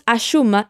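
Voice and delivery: "achuma" said as one word, the two u sounds merged; linked achuma. Shown as a demonstration. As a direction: run "acho" into "uma" as "achuma". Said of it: "juntamos el sonido de la U en acho con la U".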